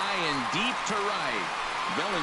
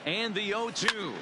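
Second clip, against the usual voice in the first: excited; 6 semitones higher than usual. Real, not acted. Home run call by commentator.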